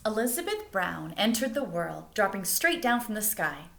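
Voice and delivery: lively picture-book read-aloud; reading aloud to children. Acted. Teacher reading a picture book to her students, lively storytime voice.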